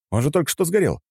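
high-pitched protesting shout. A narrator's reading. Fighter protesting the news of explosion, shouting. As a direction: shout it in disbelief. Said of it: "крикнул я".

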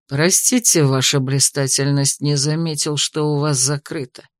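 drip poison through mock courtesy; venomous. A narrator's reading. Investigator mocks the mistress after breaking in, venomous. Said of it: "Ядовито процедил Хазарл".

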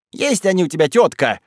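high accusing shout at her aunt. A narrator's reading. Galka shouts at her aunt Stepanida. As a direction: fling it at her. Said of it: "крикнула она Степаниде".

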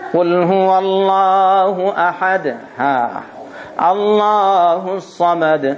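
slow, drawn-out chanted recitation; Quran recitation. Acted. Preacher recites the surah to the congregation, slow chanted tone. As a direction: intone each verse slowly and melodically.

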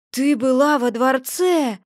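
slow, put-on spirit voice full of curiosity; curious ghost hovering close, eager; eager spirit asking. A narrator's reading. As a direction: ask with wide-eyed interest. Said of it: "Подлетел ко мне Леший".

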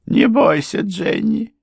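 high-pitched urgent reassurance; wife's high voice, pressing; anxious wife. A narrator's reading. Mother reassures frightened daughter, high and urgent.

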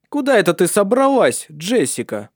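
high, loud stern demand; a strict mistress catching her out; stern question. A narrator's reading. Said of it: "строго вопросила она".

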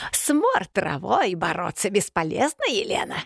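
mean witch voice, rising on the name; nasty old woman. A narrator's reading. Yaga mocks the choking Elena, nasty and sneering. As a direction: sneer it out like a spiteful hag. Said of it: "Противно рассмеялась старуха".

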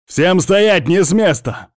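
high, loud barked command; police shout. A narrator's reading. Armed cops bursting in and shouting at everyone. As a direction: yell the order as you burst in.

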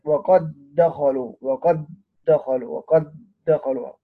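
slow "وقد دخلوا", the two د as one held d; idgham of identical letters. Shown as a demonstration. Teacher showing like-letter merging, "وقد دخلوا" with doubled d. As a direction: say "وقد دخلوا" as waqad-dakhalu, lingering on the dd. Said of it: "أيضًا إدغام في مثلها".

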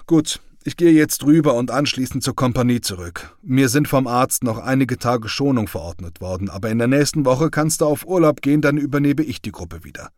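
a soldier welcoming back his comrade, lightly voiced; comrade's cheerful voice. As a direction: tease a returning friend, lightly voiced. Krüger speaking to comrades.

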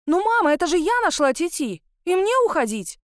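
high indignant protest; indignant whine. Acted. Girl protests to her mother, high and indignant. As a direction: whine back at mama, high and upset. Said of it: "возмущалась Антуанетта".

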